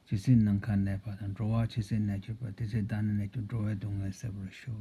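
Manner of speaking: quick, even recital in Tibetan; prayer recitation. Real, not acted. Teacher makes a conclusion prayer, recited fast and evenly. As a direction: recite the prayer briskly in a steady run. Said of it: "I will make a conclusion prayer".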